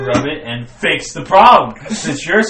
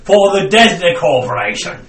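put-on Australian accent; 3 semitones higher, 5 dB louder than usual. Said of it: "But with an Australian accent".

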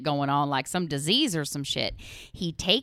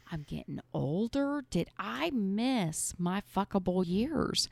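whispered worry; 3 semitones higher, 6 dB quieter than usual. Retold or imitated. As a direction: breathe the fear out quietly. Worrying about aging.

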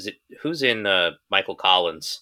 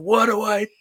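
high, loud mock-tragic wail; cheesy melodrama, cry out to the heavens; hammed-up anguished cry; 5 dB louder, slower than usual. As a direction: overwrought plea, drawn into a big "No". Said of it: "looking around going".

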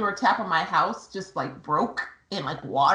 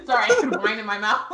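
giggling through the words; laughing; 3 dB louder, faster than usual. Real, not acted. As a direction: laugh while apologizing. Laughing over fall story.

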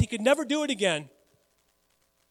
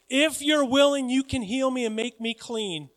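earnest raised plea, easing off; begging; 4 semitones higher than usual. Retold or imitated. Leper kneels before Jesus asking healing, pleading. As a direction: plead high, then settle. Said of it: "He begged to be healed".

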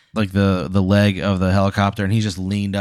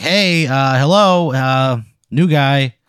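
mock director greeting; 4 semitones higher, 3 dB louder, slower than usual. Michael Bay greets the newcomer.

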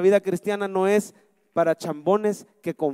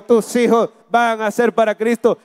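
louder repeat; 3 semitones higher, 5 dB louder than usual. Shown as a demonstration. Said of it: "Lo voy a decir de nuevo".

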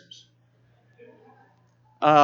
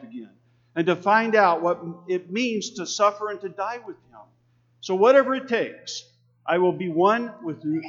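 scripture reading; 2 semitones higher than usual. Acted. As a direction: proclaim the passage to the congregation.

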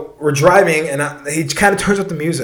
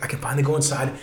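lower, understated relieved murmur; mildly acted sense of relief; retold relief; 4 semitones lower than usual. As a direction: settle into it as if finally safe. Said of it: "I'm, like, so relieved".

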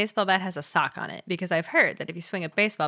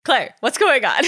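plain; 4 semitones higher, 5 dB louder, slower than usual. Shown as a demonstration. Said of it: "There we go".

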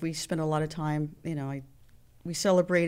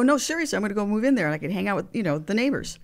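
excited; 3 semitones higher, 4 dB louder, much faster than usual. Retold or imitated. Insisting jokingly on moving in.

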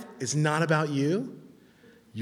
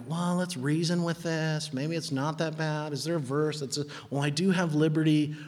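reasoning with temptation; 2 semitones higher than usual. Acted. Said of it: "and you're like".

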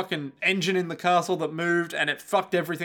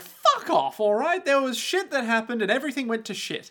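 angry snap; 8 semitones higher than usual. Retold or imitated. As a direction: snap back furiously. Voicing Carmilla snapping.

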